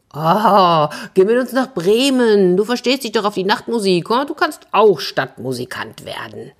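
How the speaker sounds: lightly voiced donkey making an offer; encouraging donkey. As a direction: coax a new friend along. Voices the donkey inviting the cat.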